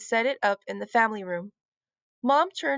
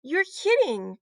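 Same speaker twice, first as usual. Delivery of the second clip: mild surprised cry; 6 semitones higher, slower than usual. A narrator's reading. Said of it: "cried Lucy".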